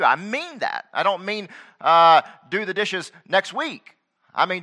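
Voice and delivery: a dad who won't be argued with; mild stern parent scolding; stern father. Retold or imitated. Preacher voicing stern father to kids.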